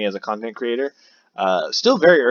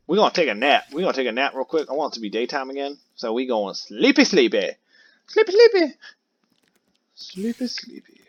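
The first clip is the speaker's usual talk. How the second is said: sleepy singsong; 3 semitones higher than usual. Pretend. Lullaby-like going to sleep.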